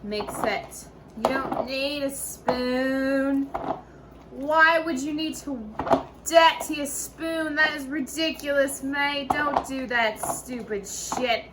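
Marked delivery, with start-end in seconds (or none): 1.2-11.4 mock indignant scolding. Host scolding viewers for dirtying a spoon, hammed-up outrage. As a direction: tell them off like it's absurd.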